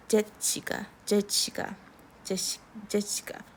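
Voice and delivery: Jessica broken by a stop, jet-shi-ka; choppy spelling pronunciation. Shown as a demonstration. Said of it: "it's a little choppy".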